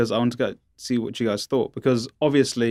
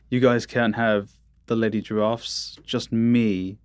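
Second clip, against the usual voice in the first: giraffe voice; slower than usual. Pretend. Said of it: "That's my giraffe voice".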